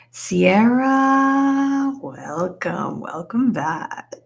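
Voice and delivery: high, loud call of the name; sing-out hello to a returning friend; excited greeting. Real, not acted. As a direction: stretch the name out in delighted welcome.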